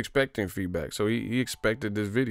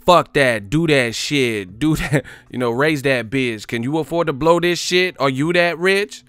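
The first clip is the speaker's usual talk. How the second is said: loud aggressive rant, higher; rapper-style rant; 5 semitones higher, 5 dB louder than usual. Retold or imitated. Streamer voicing the boss as a famous rapper, loud ranting. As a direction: spit it like an angry rapper. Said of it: "was like a rapper".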